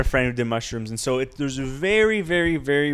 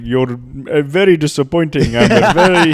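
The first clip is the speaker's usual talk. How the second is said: 1 loud disappointed; 2 semitones higher, 10 dB louder, slower than usual. Retold or imitated. Friend retelling Eugene's scolding.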